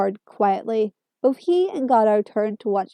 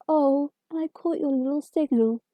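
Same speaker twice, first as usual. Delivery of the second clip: lightly mocking tone; 4 semitones higher, 5 dB quieter than usual. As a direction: needle it, teasing. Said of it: "the doctor said mockingly".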